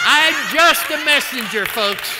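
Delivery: loud, high, laughing through words; laughing punchline. Real, not acted. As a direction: deliver it laughing, slowly.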